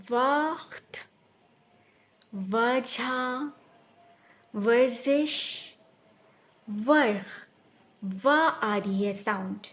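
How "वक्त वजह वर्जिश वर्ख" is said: वक्त, वजह drawn out slowly with a clear व; stretched word list. Shown as a demonstration. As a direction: stretch each word to show the व sound. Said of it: "starting sound वा की होगी". (धीरे-धीरे व की आवाज़ खींचते हुए)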